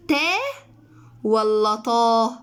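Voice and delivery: تا light, then طا heavy and slow; contrast ta and tah. Shown as a demonstration. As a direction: set تا against a slow emphatic طا. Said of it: "شوفوا الفرق عامل ازاي". (مقارنة بين تا وطا ببطء)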